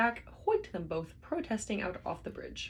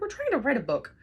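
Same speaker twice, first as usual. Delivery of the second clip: high, loud protest; high loud yell at the guard; 9 semitones higher, 7 dB louder than usual. A narrator's reading. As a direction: yell it in desperation. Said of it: "yelled Ford".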